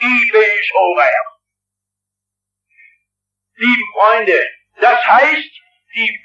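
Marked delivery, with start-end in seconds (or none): 0.0-1.3 slow "I bin schon recht", lightly Swabian and complacent; mock the sinner's smug Swabian shrug; Swabian smugness. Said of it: "hin und sagt". (langsam, leicht schwäbisch: "I bin schon recht")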